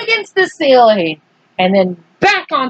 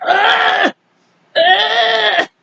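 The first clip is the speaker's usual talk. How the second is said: higher, laughing cries; 8 semitones higher than usual. Real, not acted. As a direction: giggle out the ughs. Earthworm panics coiling round James.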